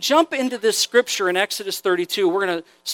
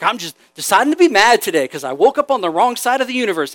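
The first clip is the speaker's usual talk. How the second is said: mock moody God; 4 dB louder, faster than usual.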